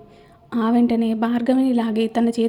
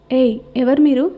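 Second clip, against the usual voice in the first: angry. Acted. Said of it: "అంది సరళని చూస్తూ కోపంగా".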